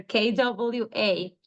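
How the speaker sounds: "K W A" spelled out slowly letter by letter; spelled-out sounds. Shown as a demonstration. Teacher reading the book's pronunciation guide, slowly. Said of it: "the pronunciation there".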